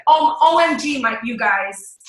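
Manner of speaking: mild OMG excitement, easing down; girlfriend gushing. Shown as a demonstration. Coach showing how to start sentences to girlfriends, mildly gushing. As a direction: open like you have news for friends. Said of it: "you're talking to your girlfriends".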